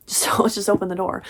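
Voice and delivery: laughing through the repeated line; cracking up while rereading it. Real, not acted. Reader cracking up at the book's line, laughing.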